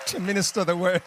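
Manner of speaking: loud and high over applause; rousing introduction. Real, not acted. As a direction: finish a big stage welcome. Host finishing introduction over applause.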